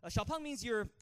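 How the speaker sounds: hesitant dad, slow and stalling; thinking it over. Retold or imitated. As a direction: stall between phrases, reluctant to hurt his feelings. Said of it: "he's, like, thinking about it a bit".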